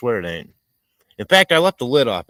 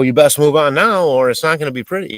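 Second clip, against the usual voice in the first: louder, higher retold warning; 4 semitones higher, 7 dB louder than usual. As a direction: raise your voice as if warning someone off. Retells warning a man following him.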